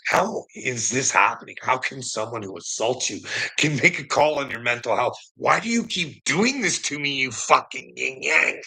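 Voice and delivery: exasperated begging, rising toward the end; retold pleading. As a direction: plead in disbelief, stressing the swear words. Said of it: "I, like, got on my knees".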